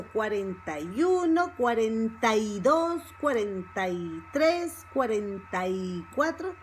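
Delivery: "cuarenta y" run together as one word; linked fast-speech numbers. Shown as a demonstration. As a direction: glide the "y" onto the end of "cuarenta". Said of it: "one word when we speak fast".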